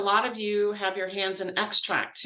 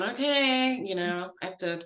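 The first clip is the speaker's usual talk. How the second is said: nasally NIH voice. Retold or imitated. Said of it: "that's my N I H voice".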